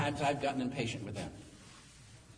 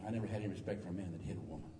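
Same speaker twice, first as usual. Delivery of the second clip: normal talking voice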